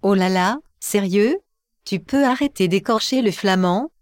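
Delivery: lightly voiced disembodied computer voice; synthetic voice. Electronic voice scolds the host for his Flemish, synthetic voice. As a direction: speak like a text-to-speech voice. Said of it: "La voix électronique désincarnée".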